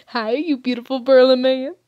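loud, excited fangirl greeting; gushing. Real, not acted. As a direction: burst out adoringly at a handsome man. Gushing at a character on screen.

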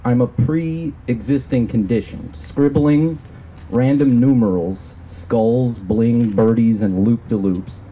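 measured, deliberate poem recital; spoken-word reading of a poem; poetry reading. Acted. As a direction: read it as a poem, phrase by phrase with pauses. Reads own poem aloud.

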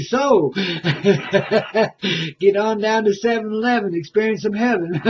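jingle line broken by laughter; laughing through words. Real, not acted. Host plugging seven eleven, laughing through it. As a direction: giggle your way through the plug.

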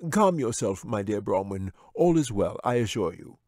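calm the bear with easy command; wizard voice. Acted.

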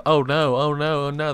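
high, loud mock panic; mock screaming. Player imitating screaming friends over game chat, mock panic. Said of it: "they're all screaming".

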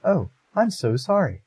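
high, slow, eager apology; lightly voiced apologetic heroine. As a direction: gush an apology to the startled creature.

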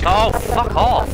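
slow, high angry yell; raging gamer. Real, not acted. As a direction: drag out a furious fuck off. Dies in game, yells.

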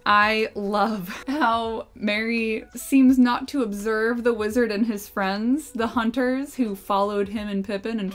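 savoring each word, slow and drawn out; slow, relishing. Real, not acted. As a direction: linger on the phrase with delight. Quoting the book, slowed and drawn out.

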